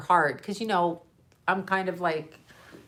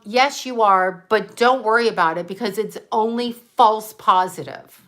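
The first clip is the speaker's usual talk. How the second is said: louder, brisk clinic worker voice; lab worker; 5 dB louder than usual. Acted. To a worried patient about a blood test, louder and dismissive. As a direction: play the lab worker, breezily brushing it off.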